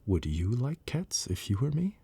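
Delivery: a lightly voiced shrill mouse; shrill, passionate. A narrator's reading. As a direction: rise up shrilly in offence. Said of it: "cried the mouse in a shrill, passionate voice".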